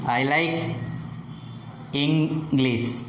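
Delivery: deliberate pause, then "English" falls at the end; falling tone. Shown as a demonstration. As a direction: let the pitch drop on "English". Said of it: "the pitch falls at the end".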